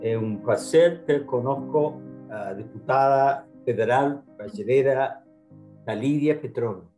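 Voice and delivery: Portuguese with an American English accent. Real, not acted. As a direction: speak Portuguese like an English-speaking learner. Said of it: "Meu português é mau, ruim".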